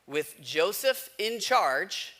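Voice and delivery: slow, deliberate reading from the Bible; unhurried scripture reading to a congregation. Acted. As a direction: read each phrase slowly and weigh it. Reads Genesis chapter aloud.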